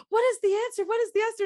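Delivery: playfully begging for an answer; mock Juliet. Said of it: "Juliet's all like".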